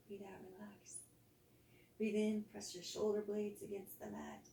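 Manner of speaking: soft guided body scan, exhales whispered; calm yoga teacher voice easing the class into rest; guided relaxation. Acted. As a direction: lead them gently through tensing and letting go.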